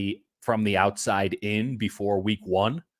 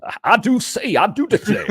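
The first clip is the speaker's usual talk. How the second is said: put-on Southern belle accent; 10 semitones higher, 6 dB louder than usual. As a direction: play a fussy Southern lady, all put-on. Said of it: "Southern accent".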